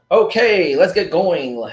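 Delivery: breathless from running around; out of breath. Real, not acted. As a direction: talk while catching your breath. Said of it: "Dude, I'm so out of breath right now".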